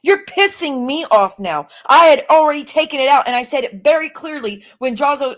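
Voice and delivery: real anger boiling over in a heated argument; getting mad. Real, not acted. Streamer snapping at her accuser over the edit. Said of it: "Sorry, I'm getting mad".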